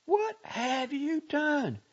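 high, loud, impassioned tirade; rising accusation. A narrator's reading. Girl accusing the doctor of mocking her dead love, outraged. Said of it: "Her voice rose slightly until it shook".

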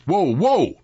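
loud, high calls to halt; calling out. A narrator's reading. Sam calming bolting mules, calling out loudly. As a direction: holler it to stop an animal.

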